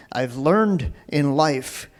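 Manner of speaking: lightly attempted English accent. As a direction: try a rough English accent. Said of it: "That's my English accent".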